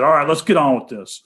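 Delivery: a bad, lightly voiced Boston accent. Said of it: "doing a terrible Boston accent".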